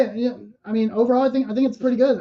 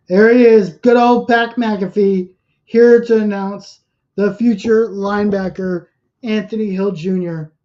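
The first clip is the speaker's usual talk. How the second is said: excited; 5 dB louder than usual. Real, not acted. Fan hyped for draft pick.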